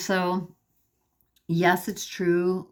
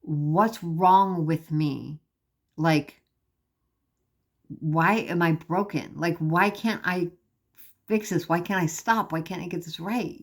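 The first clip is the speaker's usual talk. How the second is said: retold desperate plea. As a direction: plead as if at a loss, without tears. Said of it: "here's my last statement to God".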